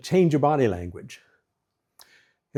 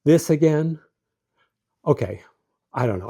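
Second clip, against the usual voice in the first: annoyed, louder "This again?", then a flat, falling "I don't know"; dismissive sigh; 3 semitones higher, 3 dB louder than usual. Shown as a demonstration. Husband brushing off his wife's complaint, irritated and dismissive. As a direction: brush her off like she's a nuisance. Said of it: "Don't be like".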